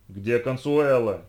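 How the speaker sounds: loud, slow demanding shout. Acted. Лиша требует ответа у Хьюго, громкий медленный крик. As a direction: bark the question at him. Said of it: "закричала Лиша".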